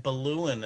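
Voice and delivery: put-on balloon said the old Melbourne way; old-fashioned Australian balloon; grandmother's old-style pronunciation. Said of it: "my grandmother used to say".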